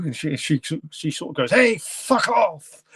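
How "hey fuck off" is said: high, drawn-out monster snarl; old haggard monster. Retold or imitated. Sue, old and haggard, rebuffs the neighbour, monster voice. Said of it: "she sounds like a real old haggard sort of monster".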